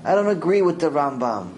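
high scoffing "Ah" before each opinion; dismissive mocking. Preacher mocking people who question the sages, scoffing. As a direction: mimic a know-it-all brushing off sages. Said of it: "So to say".

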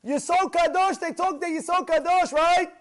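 high, loud jeering challenge; menacing taunt. Retold or imitated. Axe-wielding intruder taunting the rabbi: high, loud, threatening. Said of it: "And he said to the rabbi".

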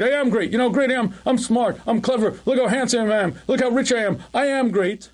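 hammed-up arrogant boast; boastful inner voice. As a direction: crow it like a braggart. Voicing the inflated self.

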